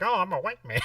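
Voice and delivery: high, laughing dorky white guy; nerd voice. Retold or imitated. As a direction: play a dorky square, hammed up. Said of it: "doing the Eddie Murphy white man voice".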